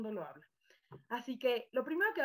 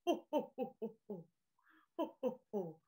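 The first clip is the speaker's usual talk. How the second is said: Santa Claus laugh; 3 semitones lower, 5 dB quieter than usual. Shown as a demonstration. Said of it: "como san".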